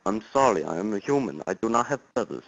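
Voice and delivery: lightly put-on Russian accent, stiff and formal; a hint of a fake Russian caller; weak mock Russian accent; bad Russian accent. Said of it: "That is the worst accent I think I've ever heard".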